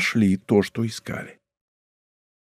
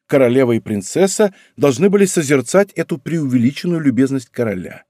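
ordinary delivery, nothing marked

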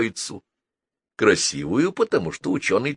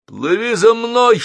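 high, loud, stretched command; desperate yell to follow; desperate shout; 7 dB louder than usual. A narrator's reading. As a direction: cry out urgently at raised pitch. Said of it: "отчаянно крикнул Геннадий".

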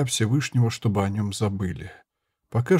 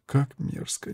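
faint; 3 semitones higher, 8 dB quieter, slower than usual. Acted. Dying woman speaks faintly.

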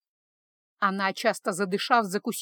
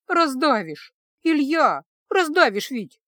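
higher, louder squeal of protest; squeaking protest; 5 semitones higher, 5 dB louder, slower than usual. A narrator's reading. Wife squeezed in a hug, squeaking higher and louder. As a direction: squeak it out, half laughing, half crushed. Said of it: "пискнула она".

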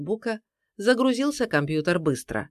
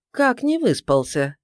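higher-pitched surprised question; amazed question; 6 semitones higher, 4 dB louder than usual. A narrator's reading. Terekhov amazed that his colleague slept badly, surprised. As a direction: ask it in astonishment. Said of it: "изумлённо взглянул на Сорина Терехов".

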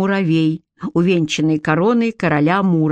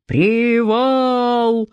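shouted command; 5 semitones higher than usual. A narrator's reading. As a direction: bark the order to stop. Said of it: "скомандовал генерал Евтихий".

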